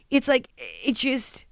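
hushed, breathy trailing whisper; drops to a whisper mid-thought. Real, not acted. Telling a friend about home, trailing into a whisper.

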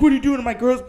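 high, loud, sobbing yell; crying ex-boyfriend. Retold or imitated. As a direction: blubber it out through tears. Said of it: "And he's bawling his eyes out".

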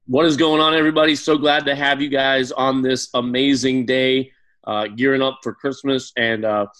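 ice in mouth. Real, not acted. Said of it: "sorry, I got ice in my mouth".

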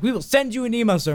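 high, insistent mock employee; put-on high customer-service voice; Domino's staff. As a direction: repeat the policy with strained politeness.

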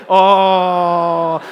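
slow, drawn-out pobrecito of fake sympathy; milk the pity with a wink; mock pity. Preacher to congregation, teasing mock pity. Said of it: "come on, everybody together".

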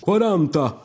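heightened bidding cry; old marshal raising. Acted. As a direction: call the raise high and quick to top the bet. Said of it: "rilanciò il maresciallo".

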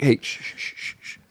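soft shushing down to a bare whisper; mock hushing. Host hushing his shaken drink, softly shushing. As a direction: hush it like a sleeping baby. Hushing the bottle so it won't erupt.

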